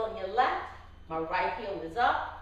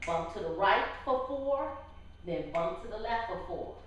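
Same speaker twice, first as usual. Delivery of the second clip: calling out dance steps. Shown as a demonstration. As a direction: call it on the beat like an instructor. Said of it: "I'm gonna call out the steps".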